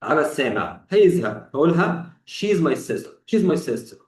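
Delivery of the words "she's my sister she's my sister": "she's" said as one clipped word; contracted form. Shown as a demonstration. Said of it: "في الحالة دي أنا طولت قوي". (نطق she's مختصرة)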